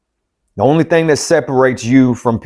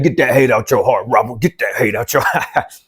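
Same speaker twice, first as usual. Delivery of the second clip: voicing God. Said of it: "Look at God choking me up".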